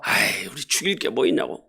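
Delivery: a hint of a pleading older brother; Judah's plea. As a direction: coax the brothers quietly.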